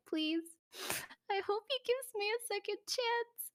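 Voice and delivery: pleading inner voice. Retold or imitated. Heartbroken teen hoping for another chance, high mock plea. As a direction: plead silently like a lovesick teen. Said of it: "in my brain, I was like".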